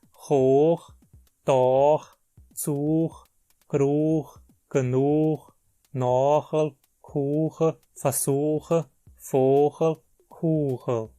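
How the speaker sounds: each gh breathed as an h. Shown as a demonstration. Teacher demonstrates gh words said as h. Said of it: "G H soa como H".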